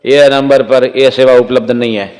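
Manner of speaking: mock recorded operator message; a hint of a phone operator's announcement, with a laugh; wife answering like a telephone recording. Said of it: "એમના પત્ની કે".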